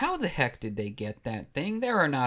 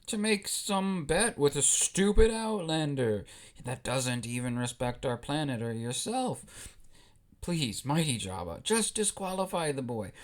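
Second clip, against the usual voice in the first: Watto. Acted. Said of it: "And Watto says".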